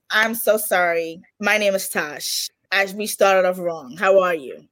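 slow, gentle retold apology; measured, mildly contrite reintroduction; retold sincere apology. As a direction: take it slowly, softening into an introduction. Retold apology to future husband.

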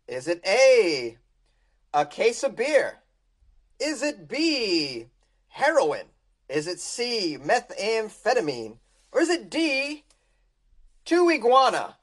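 slow, drawn-out quizmaster; game show host. Acted. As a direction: read the options like a host.

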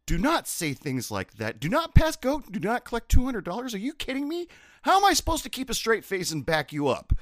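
high, loud mock cook laughing; cook imitated. Cook teasing the bartender afterwards, high and loud. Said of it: "he goes".

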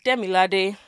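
second Demilade with level tonal syllables; with Yoruba tones. Shown as a demonstration. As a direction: give each syllable of Demilade its tone. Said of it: "there's a difference between saying".

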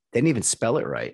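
laughing through the line.

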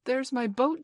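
high, loud cry of discovery; excited. A narrator's reading. Child showing John the boat, excited. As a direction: call out eagerly on spotting it.

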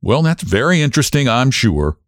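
mild, condescending indulgence; attorney humoring the ladies, tolerant. Acted. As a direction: humor the ladies, mildly amused. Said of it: "he said tolerantly".

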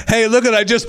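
high, dazed voice of the woman who fell; mock dazed rider, pitched high; dazed fallen rider. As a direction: play her as stunned and clueless.

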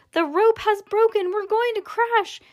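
high, frightened outcry; panicked cry. Acted. Mother crying out in fright during the plunge. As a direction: sound alarmed as the lift falls. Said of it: "Miss T V cried out".

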